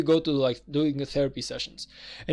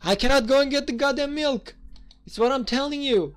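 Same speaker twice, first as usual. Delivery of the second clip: worked-up rant; 9 semitones higher than usual. Real, not acted. Heated rant after the lion quote.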